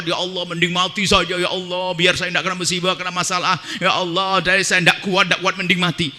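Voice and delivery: quiet, worn-out plea to God; weary despairing prayer. Pretend. A poor man begs God to let him die, weary and quiet. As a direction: sound like a poor man who gave up. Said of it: "Gara-gara fakir nyungsep gak kuat".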